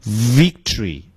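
"victory" slow, with a buzzing v; careful, slowed "victory"; model v word. Shown as a demonstration. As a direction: bite the lip to begin "victory". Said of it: "胜利念".

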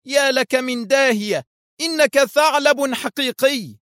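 high-pitched villain murmuring in disbelief; stunned, slowing on the last words; dazed mutter. A narrator's reading. Foster, stunned by his captive, murmurs in a high voice. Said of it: "غمغم فوستر ذاهلا".

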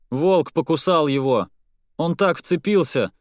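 high, loud, panicked outcry; panicked shout. Acted. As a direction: blurt it out in alarm. Petr panics over bite.

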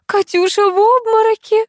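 mother calling for an ambulance, desperate shout. A narrator's reading. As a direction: scream for an ambulance. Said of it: "закричала Нина Анатольевна".

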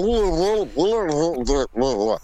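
high-pitched mock babble, fading down; mocking blather. Mocking politicians to his cohosts, high babble fading. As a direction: squeak the blahs, then let them sink.

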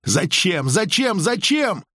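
всё выше с каждым повтором, без громкости; выкрикивай отчаянный вопрос, взвинчивая высоту; нарастающий выкрик. A narrator's reading. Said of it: "выкрикнула Анги". (выкрикивая)

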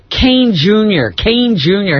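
"Kane Junior" drawn out, hitting Kane; attack-ad name emphasis. Retold or imitated. Mocking a rival's campaign commercial, pointed name emphasis. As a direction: lean slowly on KANE in "Kane Junior". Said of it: "when he does a commercial".

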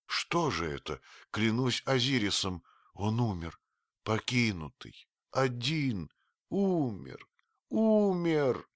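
put-on old woman breaking into a lament, climbing to a cry; wailing. A narrator's reading. Old nurse discovering her master dead, building wail. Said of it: "Она громко зарыдала".

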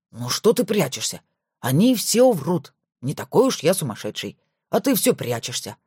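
gently reproachful, slowing on «Они все врут»; mild reproach. Acted. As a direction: chide her lightly for hiding. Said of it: "сказал с упрёком". (с лёгким упрёком)

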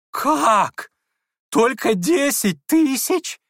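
very high, slow, incredulous shriek; high rising outraged squeal; shrill cry. A narrator's reading. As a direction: shriek it in disbelief. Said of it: "закричал Ипполит".

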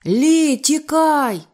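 high, loud urgent shout; shouted warning. A narrator's reading. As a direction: yell at her to run. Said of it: "крикнув містер Ейб".

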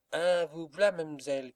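loud, high relieved call; old maid's loud, high greeting; old servant crying out. A narrator's reading. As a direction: cry out in relief at her return. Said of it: "cria une vieille servante".

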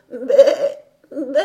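gentle little bleat; soft goat bleat. A narrator's reading. Goat bleats softly to the captain, gentle mock bleat. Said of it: "d'une voix si douce".

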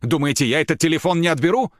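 high, loud and fast provocation; agitated challenge. Acted. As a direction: rattle off a threat. Platon challenging professor.

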